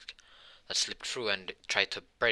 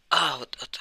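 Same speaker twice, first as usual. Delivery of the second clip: high, loud cry of pain; sudden hurt outcry; pained yelp; 6 semitones higher, 7 dB louder than usual. Acted. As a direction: yelp as you hit the ground. Character falls and gets hurt.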